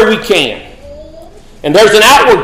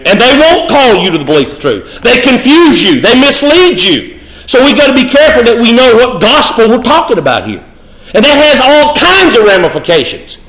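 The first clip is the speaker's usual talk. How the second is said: higher-pitched sermon delivery, stretched key words; emphatic preaching; 6 semitones higher than usual. Acted. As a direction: drive each point home like a preacher. Preaches with rising intensity.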